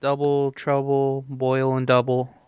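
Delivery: witch voice. Acted. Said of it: "your witch cackle".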